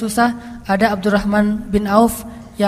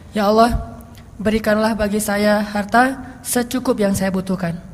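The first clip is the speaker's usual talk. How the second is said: slow, soft, lower prayer; medium prayer demo; 3 semitones lower, 3 dB quieter than usual. Shown as a demonstration. Preacher shows congregation the lighter prayer, slow and soft. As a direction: pray it gently and slowly, a humble request. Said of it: "Ini yang medium ya, yang mediumnya gini".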